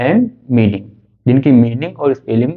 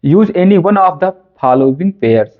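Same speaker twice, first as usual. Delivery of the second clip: very slow, word by word, reading aloud; reading the question out slowly; 2 semitones higher, much slower than usual. Shown as a demonstration. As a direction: dictate the exam question slowly to the class. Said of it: "एक सवाल पढ़ते हैं". (परीक्षा का प्रश्न धीरे-धीरे पढ़कर सुनाना)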